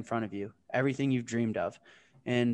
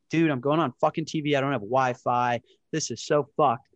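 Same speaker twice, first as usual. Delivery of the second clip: retold panic; 5 dB louder than usual. Panicking before live TV.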